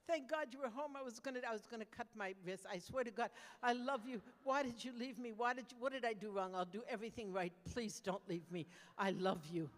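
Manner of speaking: pleading, desperate pet begging its owner not to leave; needy dog voice. Pretend. Dog greeting owner home from the road, desperate and clingy. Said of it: "and Oscar will say".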